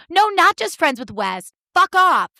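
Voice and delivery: high-pitched mock protest; put-on indignant whine; defensive. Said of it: "so defensive and so whiny".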